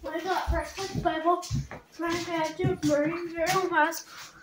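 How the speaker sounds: talking with a mouthful of food; mouth full. Real, not acted. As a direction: speak through a mouth full of breakfast. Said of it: "You're talking with your mouth full".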